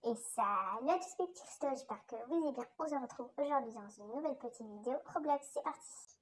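filtered voice-changer take. Shown as a demonstration. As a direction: voice run through a modifier. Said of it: "avec le modificateur de voix".

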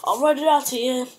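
lightly hammed-up impatient father; mock exasperated bargaining; imitating rich father. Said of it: "he's like".

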